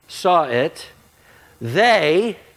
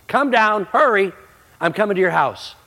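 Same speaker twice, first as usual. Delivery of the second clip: urgent call; 6 semitones higher, 4 dB louder than usual. Retold or imitated. Jesus calling Zacchaeus down.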